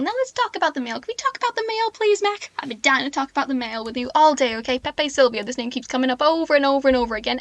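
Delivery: frantic conspiracy rant that builds to yelling names; a worked-up Charlie selling his mailroom theory to Mac; Charlie Kelly rant. Acted. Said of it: "I got the Pepe Silva, Sylvia monologue up, so I can do that".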